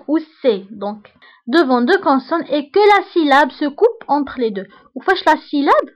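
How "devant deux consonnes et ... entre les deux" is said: slow, deliberate dictation of a rule; dictating to a class. Shown as a demonstration. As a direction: read it out slowly so students can write. Teacher dictates French rule.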